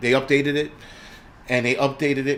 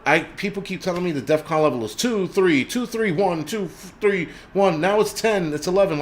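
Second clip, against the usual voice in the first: mocking, rising higher through the numbers; sarcastic listing; 6 semitones higher than usual. Mocking the prepper community's shifting defcon levels, sarcastic and higher. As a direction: rattle off the defcon numbers with mock exasperation. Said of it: "I'm being sarcastic".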